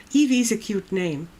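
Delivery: ordinary talk, nothing marked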